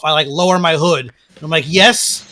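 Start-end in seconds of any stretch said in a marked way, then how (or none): 1.7-2.2 mildly exasperated, slowing into the question; a touch of huffy, feigned puzzlement; lightly acted put-upon politeness; frustrated huff. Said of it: "like, frustrated huff".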